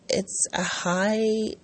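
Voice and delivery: slow unvoiced whisper on "It's a high"; hushed for effect; whispered emphasis. Real, not acted. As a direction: breathe "It's a high" slowly, no voice. Stressing the high cost.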